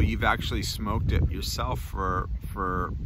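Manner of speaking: talking around pipe stem; pipe in mouth. Real, not acted. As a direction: lips closed on pipe. Seen 1: Pipe stem held between lips about 1.4–4.1s, out at other moments.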